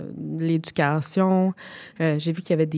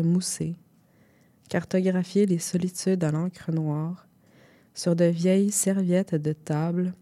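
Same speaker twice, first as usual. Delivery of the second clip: poem reading. Acted. Reads zine extract aloud.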